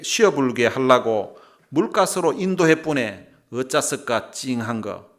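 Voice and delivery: loud, hearty Jeolla dialect reading. Shown as a demonstration. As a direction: belt out scripture in Jeolla dialect. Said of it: "전라도 버전도 있습니다". (크고 걸쭉한 전라도 사투리로 읽기)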